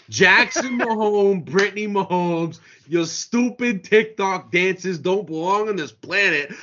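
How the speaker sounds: passionate rant. Real, not acted. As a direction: really let the anger rip. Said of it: "The way he delivered that was incredible".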